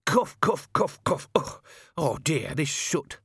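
hammed-up loud coughs; Albert faking a coughing fit for attention; loud fake coughing. A narrator's reading. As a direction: cough theatrically to interrupt. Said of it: "said Albert loudly".

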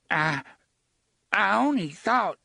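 stammering fear. A narrator's reading. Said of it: "Hoots began".

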